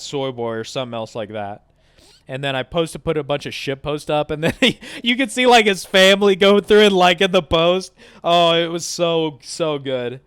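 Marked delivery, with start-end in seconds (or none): 4.3-10.2 high, loud laughing delight; cracking up while telling it; high, loud gleeful laughter. Real, not acted. Laughing at the prank.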